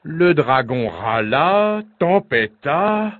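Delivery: slow narration, rising high on the end; blustering narration. A narrator's reading. Narrator tells of the raging dragon, drawn-out and rising. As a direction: stretch the verbs as the fuming builds.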